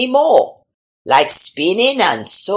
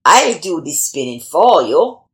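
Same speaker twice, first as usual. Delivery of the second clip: devil voice; 5 semitones lower than usual. Acted. The devil offers to spin.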